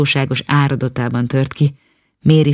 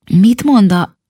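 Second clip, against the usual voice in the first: hushed whispered question; 6 semitones higher, 4 dB louder, slower than usual. A narrator's reading. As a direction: whisper it so the nanny won't hear. Boy starts asking, gets hushed. (suttogva, félbeszakadó kérdés)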